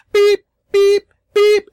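very high, loud imitated alarm beeps; piercing mimicked alarm clock. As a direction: mouth a loud electronic beep. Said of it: "let it go off".

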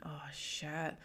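whispered inner panic; mock-horrified whisper; whispered thought. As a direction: hiss it to yourself, caught out. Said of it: "I'm sitting thinking".

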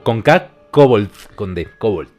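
deliberate "kobold", stressed on the first syllable; correcting the pronunciation. Shown as a demonstration. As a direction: spell out the K and D of "kobold". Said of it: "No kobold, ese es un lenguaje".

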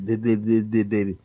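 imitated unintelligible speech. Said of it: "basically what he was saying".

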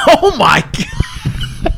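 drawn-out high "Oh my God" at the smell; a long, high-pitched groan of disgust; disgusted outcry. Real, not acted. Reacting to a fart.

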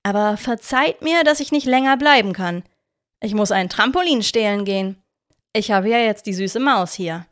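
lightly voiced sneering farewell; mock-polite villain. Victor taking his leave with the mouse, sneering. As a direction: fake apology dripping with scorn.

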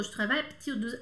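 je travaille à partir de rushed and run together; swallowed words. Retold or imitated. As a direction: imitate her gulping je travaille à partir de quickly. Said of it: "Meio que engolindo a coisa". (je travaille à partir de, engolindo as sílabas)

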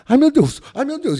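high mock squeals of fright; mock panic. Boss in the speeding car, teller mimics her frightened squeals. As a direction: squeal like a scared passenger.

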